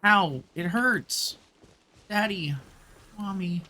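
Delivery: ordinary talk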